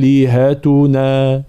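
slow آلهتنا, second hamza eased; آلهتنا بالتسهيل; softened hamza. Shown as a demonstration. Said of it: "نفس الحالة".

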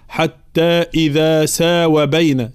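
"حتى إذا ساوى بين" with some madds cut short; uneven madd mistake. Shown as a demonstration. Teacher showing another mistake, "ساوى" with unequal madds. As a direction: hold early vowels, shorten "وى" in "ساوى". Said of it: "لا نقول مثلًا".

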